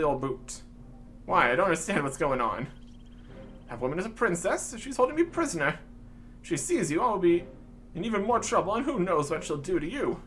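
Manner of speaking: mildly hammed-up worried gent; theatrical British alarm; eccentric old-chap prisoner, alarmed. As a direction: warn a chum anxiously as an old chap.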